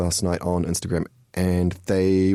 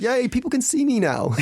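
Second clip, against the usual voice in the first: laughing. Real, not acted. Joking about Bi Visibility Week.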